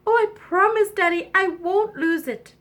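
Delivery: high princess voice; eager princess. Acted. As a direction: promise daddy earnestly. Princess promises her father.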